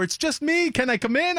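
high, coaxing mock manager voice; manager at the door. Manager knocking on the green room door, high coaxing voice. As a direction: gently coax through a locked door. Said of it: "The manager's knocking on the door".

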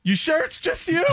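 high, laughing mock suspicion. Comic hiding in green room, laughing suspicious reply. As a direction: ask it through a laugh. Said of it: "I was like".

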